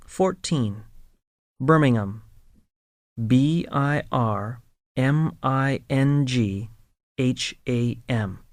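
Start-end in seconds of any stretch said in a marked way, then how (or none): 3.3-8.4 spelled out letter by letter. Shown as a demonstration. Teacher spelling the word for learners to follow. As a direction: spell each letter clearly. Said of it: "spelling the city".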